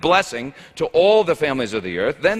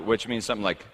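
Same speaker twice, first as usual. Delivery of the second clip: ordinary delivery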